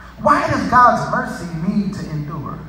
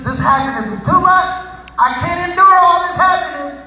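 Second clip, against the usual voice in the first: mock complaint; 7 semitones higher, 4 dB louder than usual. Mock complaint nobody would ever make.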